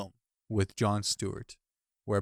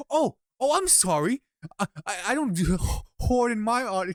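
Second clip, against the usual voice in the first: retold Colbert quip; 8 semitones higher than usual. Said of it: "He's like".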